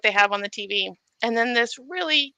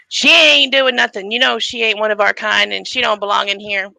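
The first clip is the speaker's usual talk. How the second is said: tough inmate; 6 dB louder than usual. Retold or imitated. Inmate telling the warden off, tough and loud. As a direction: lay down the law to the warden.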